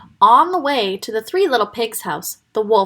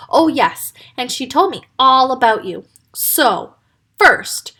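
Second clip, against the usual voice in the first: booming; 4 semitones higher than usual. Acted. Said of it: "a wolf's booming voice".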